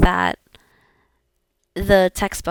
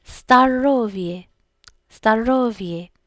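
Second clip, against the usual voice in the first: slow drill; slower than usual. Shown as a demonstration. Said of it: "slow repetition for learners".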